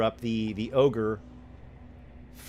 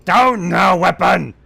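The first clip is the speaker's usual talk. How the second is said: much higher, louder snarling shout; hobgoblin shout; 9 semitones higher, 15 dB louder than usual. Acted. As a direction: scream the order. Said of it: "the hobgoblin says".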